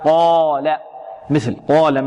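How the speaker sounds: "قال" with a thick, back long a after qaf; heavy alif. Shown as a demonstration. Teacher gives an example, "قال" with heavy alif. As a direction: fill out the long vowel of "قال" darkly. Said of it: "مفخما فخمناها".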